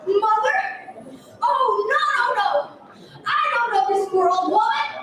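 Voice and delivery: fast, scornful denial; arrogant. Acted. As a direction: brush her off arrogantly and quickly. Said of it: "so he answered arrogantly".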